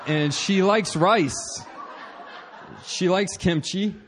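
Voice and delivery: slow, amused list with chuckles; laughing. Real, not acted. Husband listing his wife's Korean food loves, laughing slowly. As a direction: savour each food with a laugh.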